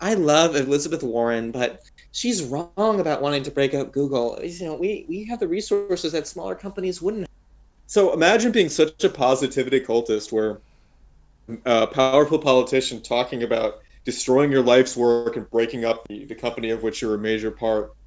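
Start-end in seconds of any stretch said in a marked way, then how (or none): 0.0-7.3 put-on high-pitched Valley Girl accent. Quoting an interviewed executive in a put-on valley girl accent. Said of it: "I'll use Valley Girl".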